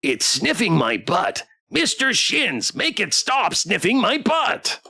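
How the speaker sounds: high, whiny robot pet complaint; sing-song protest climbing in pitch; distressed toy pet. Acted. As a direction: plush companion pleading for rescue.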